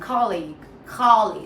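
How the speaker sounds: colleague opened towards KAH-leeg; little ah sound. Shown as a demonstration. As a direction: say colleague loudly with ah in first syllable. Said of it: "actually a little ah sound".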